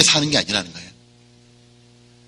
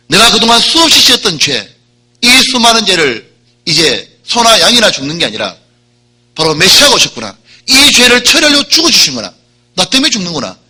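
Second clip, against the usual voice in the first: louder and higher, building awe; overwhelmed realization; 5 semitones higher, 5 dB louder than usual. Retold or imitated. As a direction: let the realization burst out. Thief realizes, loud high. (벅차오르는 깨달음, 크고 높게)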